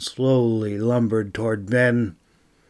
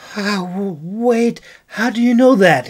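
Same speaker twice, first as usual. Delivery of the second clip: high, rising amazed question; astonished, getting faster and louder; high fast wondering gasp; 9 semitones higher, 6 dB louder than usual. Acted. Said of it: "he gasped in wonder".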